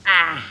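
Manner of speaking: low, drawn-out dismissive "ah". Shown as a demonstration. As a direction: discredit it with one wordless "ah". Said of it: "sometimes we don't even talk".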